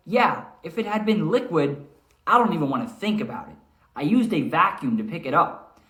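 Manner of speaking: Mister Grassel telling the manager, alarmed; worried groundskeeper. Acted. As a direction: sound alarmed about the near disaster. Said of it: "kinda like what I just did".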